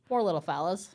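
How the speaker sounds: soft Aussie practice take; stereotypical Australian accent. Shown as a demonstration. Co-host practising a line, stereotypical Australian accent. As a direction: try it quietly in an Australian accent. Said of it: "am I actually kinda good".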